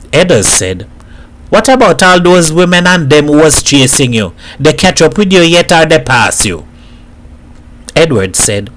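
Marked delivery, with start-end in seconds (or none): 1.5-6.6 higher-pitched needling in Trinidad dialect; lightly voiced street-corner tease; teasing Trinidadian neighbour. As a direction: prod him with pointed questions. Neighbour needles Edward about the Americans.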